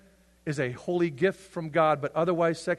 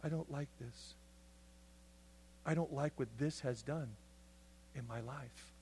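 rueful son; 3 semitones lower, 13 dB quieter than usual. Retold or imitated.

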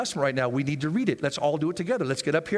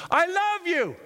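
high sweet claim; 11 semitones higher, slower than usual. Acted. Voicing believer's claim.

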